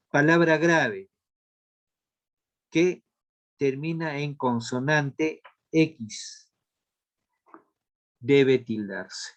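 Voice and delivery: measured teacher dictation with long pauses; slow dictation. Real, not acted. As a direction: dictate slowly, phrase by phrase. Dicta la respuesta a los alumnos. (dictado lento y pausado)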